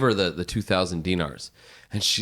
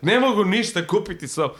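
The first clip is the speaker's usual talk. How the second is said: mock indignant; 11 semitones higher, 3 dB louder than usual. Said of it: "she's like".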